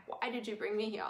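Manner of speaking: soft, hushed retelling of a tearful question; lightly imitated tearful whisper-like plea; retold quiet plea. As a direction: ask it quietly, as if to the land. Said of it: "I was just bawling my eyes out".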